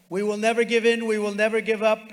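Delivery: loud, defiant rally shout; roaring rallying speech. Real, not acted. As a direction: hammer each line to the crowd.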